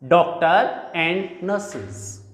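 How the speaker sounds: "doctor and nurses" slowly, the R of "doctor" linked into "and"; slow linking demo. Shown as a demonstration. Teacher slowly modelling "doctor and nurses" for students. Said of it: "So it will be pronounced doctor and".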